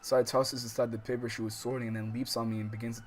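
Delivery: steady read-aloud voice for the novel; calm visual novel reading; story narration. A narrator's reading.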